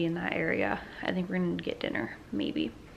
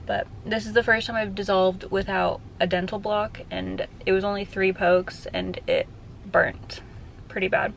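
numb tongue; 3 dB louder than usual. Real, not acted. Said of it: "my tongue is numb from the numbing cream".

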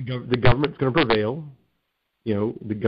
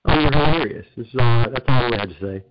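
cave echo; 2 semitones lower than usual. Real, not acted. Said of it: "sounds like you're in a cavern right now".

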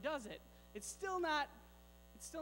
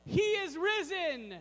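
mild shout demo; 5 semitones higher, 3 dB louder, slower than usual. Shown as a demonstration. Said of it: "where we shout out".

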